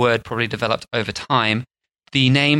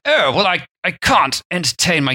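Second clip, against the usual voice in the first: put-on English accent, higher pitch; 5 semitones higher than usual. Playing a host out of gin, mock English accent. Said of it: "let's assume he's English just for the sake of the accent".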